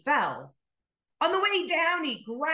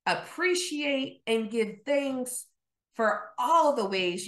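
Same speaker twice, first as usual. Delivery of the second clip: prayer. Acted. Pastor praying over the Thanksgiving congregation, earnest.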